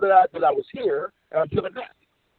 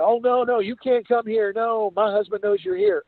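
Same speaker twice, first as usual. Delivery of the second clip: lightly voiced woman, higher, a touch worried; a hint of a nervous woman pitched up; imitating Sue; 12 semitones higher, slower than usual. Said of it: "She said".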